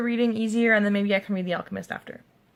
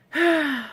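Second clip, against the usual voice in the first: higher-pitched, falling sigh; heavy sigh; 6 semitones higher than usual. Real, not acted. Not feeling like reading at all, sighing. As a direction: let out a weary sigh. Unmotivated to read, sighs.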